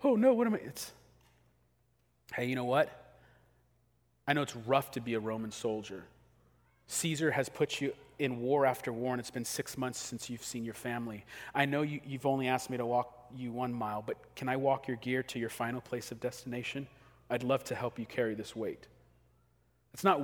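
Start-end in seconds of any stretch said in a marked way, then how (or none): 0.0-0.6 much higher, louder mock panic. Father who is not panicking, mock panic. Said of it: "You're not like". 2.3-18.9 kind offer. Retold or imitated. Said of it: "You're not like ... it's".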